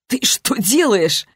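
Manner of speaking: slow, baffled asking; bewildered friend asks; bewildered question. A narrator's reading. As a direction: ask it slowly, not believing your eyes.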